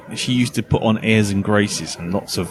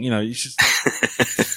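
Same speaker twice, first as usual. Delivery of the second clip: ordinary talk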